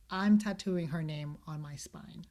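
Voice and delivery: whispered, slow and breathless; mock whisper. Mocking a pop star's pledge to the host, a slow whisper. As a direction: hush it like a fan's vow.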